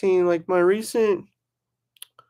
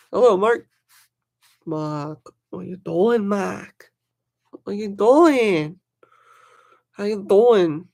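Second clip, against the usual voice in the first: greeting Mark in a put-on accent, louder at the end; a playful put-on accent for a chat greeting; 3 dB louder, slower than usual. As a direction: drawl the greeting in a mock accent. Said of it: "I got that accent going".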